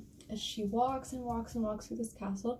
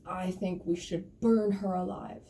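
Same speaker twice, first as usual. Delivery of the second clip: slow, lightly voiced big bear; 2 semitones lower, 3 dB louder, slower than usual. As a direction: pronounce the verdict slowly, a touch of menace. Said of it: "so the big bear says".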